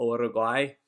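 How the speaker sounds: "Uruguay" in a Spanish accent, opening on OO; attempted Spanish pronunciation of "Uruguay". Shown as a demonstration. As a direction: echo a Spanish speaker's "Uruguay", oo-roo at the start. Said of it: "bringing back the Spanish accent".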